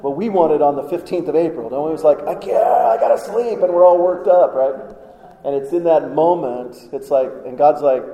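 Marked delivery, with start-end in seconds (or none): 2.2-3.6 mock fretting. Believer worrying at night.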